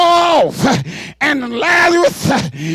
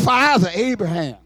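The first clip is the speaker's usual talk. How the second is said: rich man pleading; 5 semitones lower, 3 dB quieter than usual. Acted. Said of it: "and he says".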